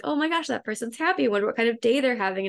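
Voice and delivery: excited and happy. Retold or imitated. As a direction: retell a happy gasp of wonder, quickening. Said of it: "she would get excited and happy".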